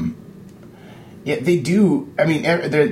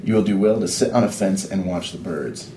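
laughing while reading. Acted. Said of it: "let's read that again".

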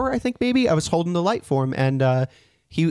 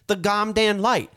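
put-on child proudly repeating the swear, slowly; slow mock curse; 4 semitones higher, slower than usual. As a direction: kid repeating the curse, laughing. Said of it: "He says".

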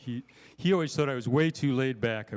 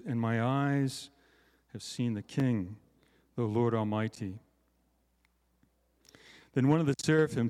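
scripture reading. Acted. Reads Isaiah six aloud.

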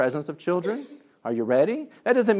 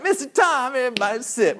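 high-pitched imitation of kids; kids calling out; 10 semitones higher, 3 dB louder than usual. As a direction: mimic children piping up. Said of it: "And they're like".

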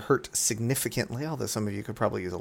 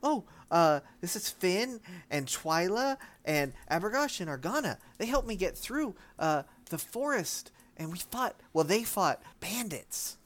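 put-on a lightly higher young girl; Dashir's voice; 6 semitones higher, 3 dB quieter than usual. Dashir introducing her friends to granny, lightly voiced. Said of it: "She says".

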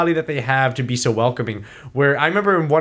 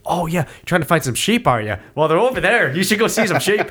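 lightly voiced, high-pitched chipper host; a hint of a keen Irish local; welcoming Irish local; 5 semitones higher than usual. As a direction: eagerly point a visitor along, lightly imitating. Voicing eagerly welcoming Irish locals.

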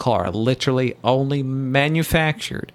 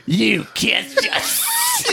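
put-on Aussie accent; slower than usual. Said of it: "drinking Foster".

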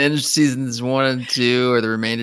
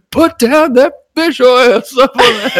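high, loud hammed-up order; mock SWAT yell; mock tactical command; 12 semitones higher, 9 dB louder than usual. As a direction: bark it like a raiding cop. Imagined SWAT raid on shopper.

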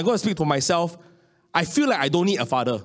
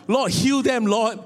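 retold desperate prayer; 4 semitones higher, slower than usual. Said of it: "eh, I said".

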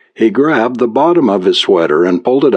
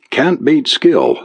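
slow, higher, smug boast; smug gloat; 7 semitones higher, slower than usual. A narrator's reading. Reporter gloating at the businessman after gin, slow and smug. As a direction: savour the win.

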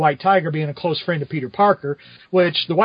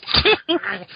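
mock choking noise. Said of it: "grabs him by the throat, and Peter goes".

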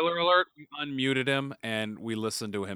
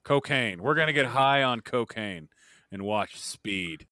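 cowboy voice; 4 semitones lower than usual. Acted. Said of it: "why do you sound like John Wayne".

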